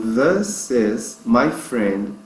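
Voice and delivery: slow "This" with a soft, breathy TH. Shown as a demonstration. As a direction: blow the TH in "This" like a soft D. ("This" com TH de D soprado)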